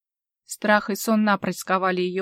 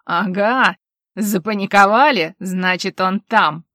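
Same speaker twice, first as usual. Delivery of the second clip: louder gloating triumph; triumphant; 7 dB louder, slower than usual. A narrator's reading. Nan gloating over the panicking woman, triumphant. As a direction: crow over her, triumphant. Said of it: "возликовал Нэн".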